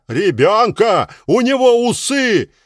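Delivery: mocking retort.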